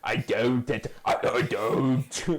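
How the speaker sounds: slow, whiny, half-sobbing no, no; flustered Snoke denial. Retold or imitated. Snoke caught out, denying it with a mock whimper. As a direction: deny it in a mock blubbering whine. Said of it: "You sound a bit like Palpatine".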